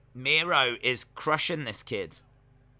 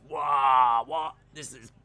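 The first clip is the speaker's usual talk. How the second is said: mock crowd shout. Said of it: "And everyone goes".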